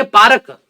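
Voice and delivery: पार्क said as "paarak" with an extra vowel before the k; local pronunciation. Shown as a demonstration. Showing how his town says पार्क, as "paarak". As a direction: say पार्क in two beats, "paa-rak". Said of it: "पार्क नहीं बोलते".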